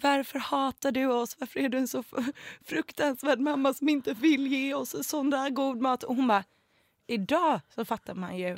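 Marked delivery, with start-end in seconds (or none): 0.0-6.0 put-on high-pitched, tearful, stumbling whine of a crying child. Retelling complaining to mom as a child: imitating own childhood crying. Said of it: "gå hem till min mamma och gråta och bara så här".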